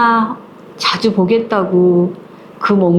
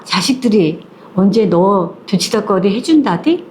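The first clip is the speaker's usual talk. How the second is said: mother's angry nagging. Retold or imitated. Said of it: "화를 내는 거야".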